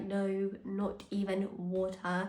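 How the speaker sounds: slow, spaced-out "No, not even water"; deliberate retold answer. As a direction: spell it out slowly and quietly. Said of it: "And I'm like".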